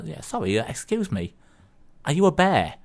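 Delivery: lightly acted puzzled cinemagoer; hesitant polite inquiry. Man nudging a bear in the cinema, hesitant polite query. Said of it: "prod with his elbow and says".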